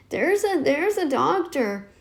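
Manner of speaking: a light imitation of a shaky, croaky old doctor, slow. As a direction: drag the words out like a croaky elderly doctor. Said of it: "he has this sort of shaky, croaky voice".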